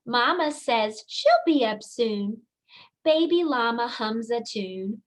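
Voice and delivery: expressive storybook reading; singsong rhyming read-aloud; reading to children. Acted. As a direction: read it like bedtime story time for little kids. Teacher reads picture book aloud.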